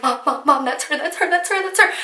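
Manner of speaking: breathless fangirl rush, building up; excited squeal. Retold or imitated. Teen spotting a singer, calling to her mom, rising excited squeal.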